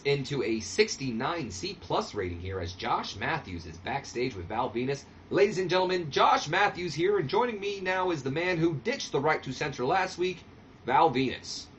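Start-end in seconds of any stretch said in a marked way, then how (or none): 5.3-11.7 interviewer intro. Retold or imitated.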